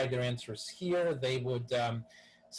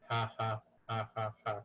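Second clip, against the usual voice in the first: robot laugh; 3 semitones lower, 3 dB quieter than usual. Pretend. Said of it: "can a robot laugh?".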